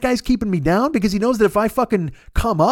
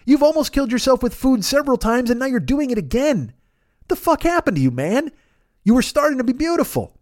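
raised, exasperated self-reproach; pleading telling-off, pitched up; scolding himself; 4 semitones higher than usual. Acted. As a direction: berate yourself in mock despair. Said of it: "And I'm like".

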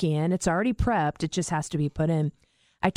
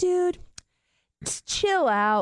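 amused brother voice; 6 semitones higher than usual. Retold or imitated. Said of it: "He goes like".

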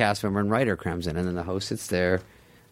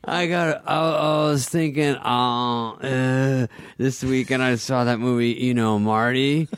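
higher, halting, laughing nervous pitch; nervous Chris Farley; 5 semitones higher, slower than usual. Retold or imitated. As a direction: stumble through the pitch like a panicked writer. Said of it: "calls him both names like a psycho".

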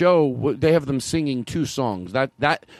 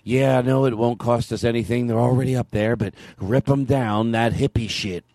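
Ronald Reagan; 4 semitones lower than usual. Acted. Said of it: "Ronald Reagan?".

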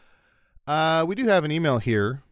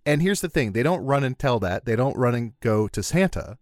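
QVC host. Pretend. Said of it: "we gotta Q V C this shit".

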